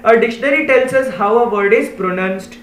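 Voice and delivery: slow, deliberate reading of a definition; slow read-aloud. Shown as a demonstration. Teacher slowly reading the dictionary definition to pupils. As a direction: spell out each word for the class.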